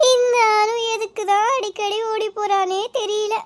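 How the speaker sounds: put-on crying over the runaway girl; weepy, despairing question; tearful worry. Mother wonders why her daughter keeps running away, tearful.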